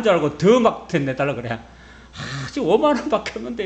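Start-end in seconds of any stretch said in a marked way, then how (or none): 1.5-3.6 pleading poverty. Pretend. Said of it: "이렇게 막 사정사정 해야 돼".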